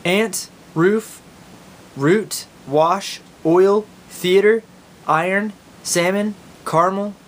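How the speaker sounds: reading a word list in Oklahoma accent; Okie accent. Shown as a demonstration. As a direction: Oklahoma drawl on each word. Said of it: "here are the words".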